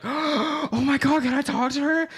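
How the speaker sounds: high, loud imitation of a thrilled gasp; starstruck fan. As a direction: gush like a fan who has just lit up. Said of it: "her whole face lit up".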